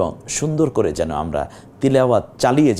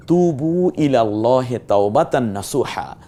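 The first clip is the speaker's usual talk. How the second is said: Quran recitation; 2 semitones higher than usual. Shown as a demonstration. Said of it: "আল্লাহ তাআলা বলছেন".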